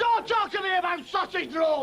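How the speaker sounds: angry shout at the interruption; indignant bellow; shouted rant. Acted. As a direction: cut him off with a yell. Ranting comic character.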